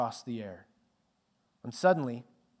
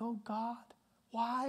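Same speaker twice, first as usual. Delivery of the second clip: imitated despairing cry; 9 semitones higher, 7 dB quieter, slower than usual.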